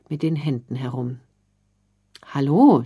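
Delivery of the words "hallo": a loud, friendly hello to a stranger; freundlich. A narrator's reading. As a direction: call out kindly to get her attention. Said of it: "spricht die Frau sie dann freundlich an". (lautes, freundliches Hallo)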